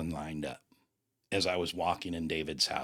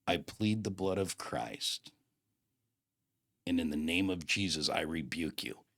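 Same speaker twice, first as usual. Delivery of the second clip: retold broken-down prayer; 3 semitones lower than usual. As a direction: imitate someone worn down, praying haltingly. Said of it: "he finally broke down".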